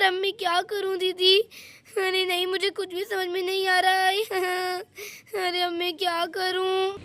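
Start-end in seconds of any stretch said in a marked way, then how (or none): 2.0-6.9 crying. Acted. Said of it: "Radha रो क्यों रही हो".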